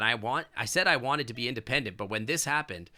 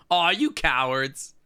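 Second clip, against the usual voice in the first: mock outrage; 5 dB louder, slower than usual. Real, not acted. Mock outrage at nipple removal.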